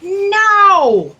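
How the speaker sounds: a loud, high shout of refusal; sharp no. Acted. Boss shouting no at her assistant about lunch. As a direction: bark the no at the assistant.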